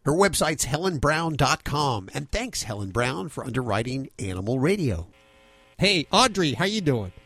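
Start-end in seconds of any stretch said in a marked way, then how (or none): 0.0-5.1 measured radio ad read; radio host's sponsor credit. Acted. Host reads sponsor message.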